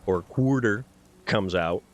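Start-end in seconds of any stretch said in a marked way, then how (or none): 0.2-0.8 imitated Bronx "quawder"; dad's Bronx accent. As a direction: let dad's old Bronx vowel slip out. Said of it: "lost most of his accent".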